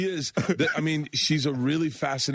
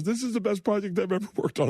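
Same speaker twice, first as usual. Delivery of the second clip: quoted crew line; 11 semitones higher than usual. Retold or imitated. Quoted crew member at the shoot.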